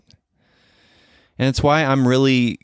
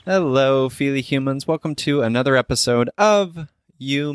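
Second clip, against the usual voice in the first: normal talking voice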